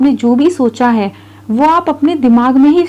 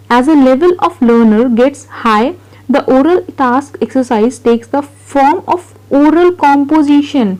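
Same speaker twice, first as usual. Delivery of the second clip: reading notes aloud very slowly, word by word; slow dictation read; much slower than usual. Acted. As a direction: spell it out for students to copy. Teacher reads notes aloud slowly. (धीमी गति से notes पढ़ना)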